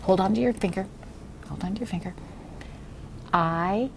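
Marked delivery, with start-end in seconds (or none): 3.3-3.9 slow, word-by-word read-aloud; each word drawn out and separated; model reading. Shown as a demonstration. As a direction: read it very slowly for a beginner to echo. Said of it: "Watch me".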